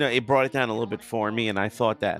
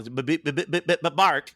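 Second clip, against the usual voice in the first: stuttering bark; 4 semitones higher than usual. Retold or imitated. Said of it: "Porky barking, but stuttering".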